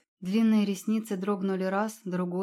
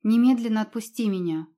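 louder, strained rasp of a demand; hoarse demand; 3 semitones higher, 7 dB louder than usual. Acted. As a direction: force it out through a sore throat. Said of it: "просипела девушка". (сиплое требование)

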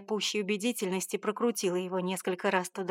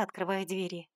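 ordinary delivery, nothing marked

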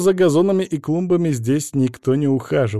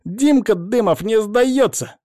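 put-on defiant kid; 10 semitones higher, 5 dB louder, slower than usual. A narrator's reading. Boy defiant to father.

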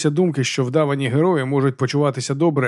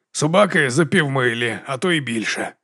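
drawled. Acted. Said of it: "затягнув барон".

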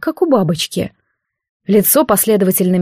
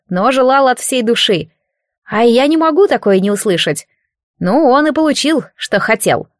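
put-on knowing child god; 2 semitones higher than usual. God in boy form lecturing the priestess, knowingly. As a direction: explain like an old soul in a kid's body.

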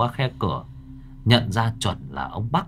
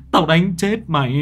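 louder, higher angry threat, a bit less than the first; angry repeat; 8 semitones higher, 5 dB louder than usual. A narrator's reading. Grandfather repeats the threat at Nhi, still angry. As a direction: hammer the threat home again. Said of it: "ông vừa vả ông vừa chửi".

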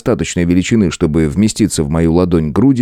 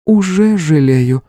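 wry smirk; 10 semitones higher, slower than usual. A narrator's reading. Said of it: "хмыкнула та".

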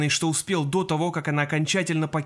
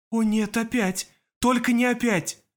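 panicked dread; 7 semitones higher than usual. Acted. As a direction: wail in dread at it happening again. Alma panics at the repeat.

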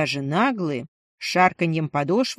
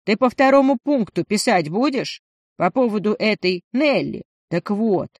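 loud over the noise; 2 semitones higher, 3 dB louder than usual. Acted. Lenchik over roadworks noise.

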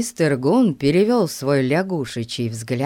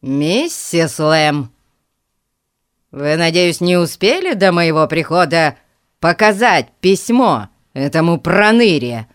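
thundering; 7 dB louder than usual. A narrator's reading. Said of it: "гремел мистер Гун".

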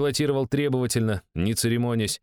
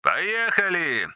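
high, stretched eager call; excited shout; 9 semitones higher, much slower than usual. Acted. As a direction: shout it out with relish. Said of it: "крикнул Максимыч в шлемофон".

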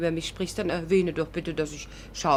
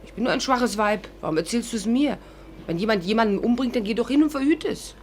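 higher, teasing and sarcastic; mocking irony; 5 semitones higher than usual. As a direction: needle him about being a man. Mocking Larry, ironic. (spöttisch und ironisch, höher)

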